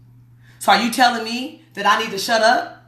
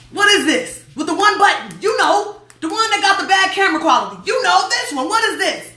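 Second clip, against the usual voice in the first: much higher, singsong questioning voice; pitched way up, fishing for the forgotten name; struggling to remember; 10 semitones higher than usual. Shown as a demonstration. I can't even remember that this.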